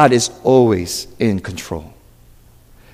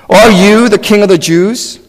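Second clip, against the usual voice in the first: raised, louder interrogating question; dramatic higher-pitched questioning; questioning Pilate; 6 semitones higher, 5 dB louder than usual. Acted. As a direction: put it to the prisoner as a challenge.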